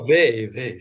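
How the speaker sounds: "Weil" said as "vay"; "Weil" the French way, rhyming with "day"; V sound. Real, not acted. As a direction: say "Weil" with a V and silent L. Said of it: "Why is there a V sound?".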